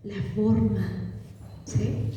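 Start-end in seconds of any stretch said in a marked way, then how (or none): none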